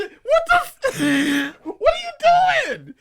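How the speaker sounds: very high, loud, drawn-out disbelief; mock shocked shout. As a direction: yell like a startled bystander, hammed up. Acted shocked bystander reacting to yelling.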